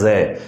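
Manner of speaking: जय with a buzzing z, like English zoo; Persian z sound. Shown as a demonstration. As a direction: say जय as za with voiced z, not ja. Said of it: "यह अरबी फारसी वाला जय है".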